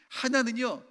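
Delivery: normal talking voice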